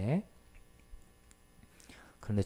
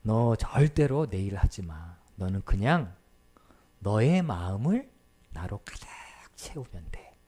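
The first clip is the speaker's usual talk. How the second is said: tender divine words. Retold or imitated. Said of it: "이렇게 말씀하시더라는 거예요".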